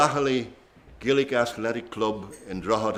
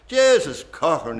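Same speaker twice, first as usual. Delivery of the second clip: a louder Dundalk repeat of "Jesus Cochran"; Dundalk accent; 6 semitones higher, 6 dB louder than usual. Retold or imitated. Paddy Turrell repeating it to Sean Cochran, louder Dundalk accent. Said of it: "he says, in a Dundalk accent".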